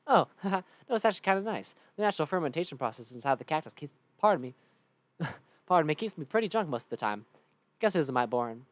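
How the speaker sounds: loud Southern cowpoke; good-humored Southern character voice; Cactus Bill. Acted. Cactus man tells of being a cactus, loud Southern voice. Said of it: "Cactus Bill".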